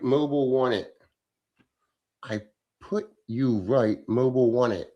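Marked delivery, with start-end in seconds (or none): 2.2-4.9 puzzled reread. Shown as a demonstration. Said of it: "I don't know what the fuck you're saying".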